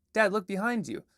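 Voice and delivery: urgent warning to dad; urgent child. Acted. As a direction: kid shouting a warning.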